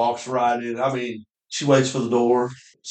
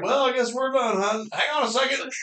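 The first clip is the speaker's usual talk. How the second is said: mock hunter; 9 semitones higher, 3 dB quieter than usual. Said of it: "He's like".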